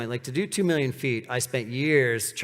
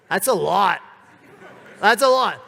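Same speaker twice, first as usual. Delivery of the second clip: emphatic; 7 semitones higher, 8 dB louder than usual. Real, not acted. Repeated for emphasis.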